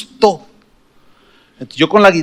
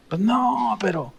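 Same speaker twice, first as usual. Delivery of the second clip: réplica resignada; 4 semitones higher, 12 dB quieter, slower than usual. Retold or imitated. Responde resignado, llorando en el camión.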